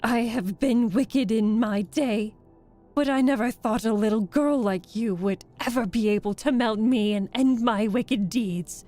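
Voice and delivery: loud, despairing last speech; wailing witch. A narrator's reading. Dying witch bequeathing her castle to the girl, wailing. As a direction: lament loudly as you melt away. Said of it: "in a wailing, despairing voice".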